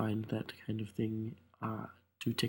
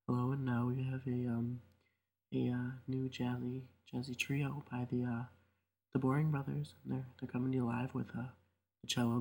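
NPR announcer voice; 2 semitones higher, 4 dB quieter than usual. Pretend. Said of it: "I kinda feel like I'm on National Public Radio".

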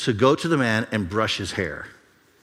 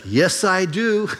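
slow; 7 semitones higher, much slower than usual. Retold or imitated. Man's unexpected calm answer.

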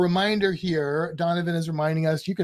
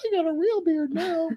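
mock boast; 12 semitones higher than usual. Teasing his wife with a mock-boast.

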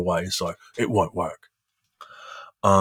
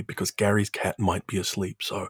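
soft, hushed aside before the show; mock hushed; 7 dB quieter than usual. Co-host warning about a sleeping cat, mock hushed. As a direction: keep it down, playfully hushed. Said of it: "gonna say this very quietly".

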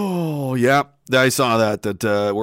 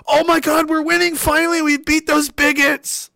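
higher giddy mock triumph; mock smug anchor; 9 semitones higher than usual. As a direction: gloat like a clueless anchor. Mocking CBC celebrating.

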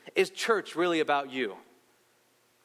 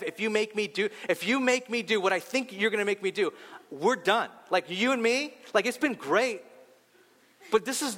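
higher, mild mock yell, pleading and final; hurt man shouting at God from an empty street, higher mock yell; retold yell at God; 5 semitones higher than usual. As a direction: rail at God like you're breaking up, pitched up but not loud. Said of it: "I'm yelling this out loud".

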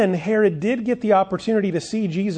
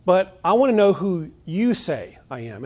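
weight on "you" in "who you say I am"; emphatic you; 2 semitones higher, 3 dB louder than usual. Shown as a demonstration. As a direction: press the word "you". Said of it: "the you there is emphatic".

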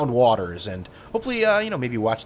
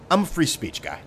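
swaggering; 6 semitones higher than usual. Retold or imitated. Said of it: "big dick swinging".

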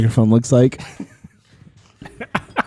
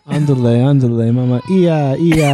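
mock Mexican accent. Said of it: "what if Pancho did a Mexican voice".

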